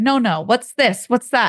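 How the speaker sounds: strong, thick put-on Italian accent. Acting out a man from Italy answering questions on an old recording, thick Italian accent. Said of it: "and that accent".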